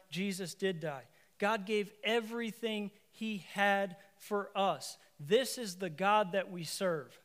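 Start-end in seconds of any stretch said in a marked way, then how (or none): 1.4-7.2 slow, weighty delivery; slow emphasis. Real, not acted. Preacher pressing the point to the congregation, slow. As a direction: lean on every word slowly. Preacher slows to drive it home.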